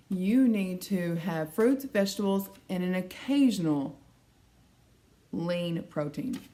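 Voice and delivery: slow, drawn-out mimic of the doctor; doctor's slow drawl. Doctor lecturing the patient on diet, mimicked slow and drawn out. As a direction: stretch every word out like a condescending doctor. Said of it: "And that's how she said it".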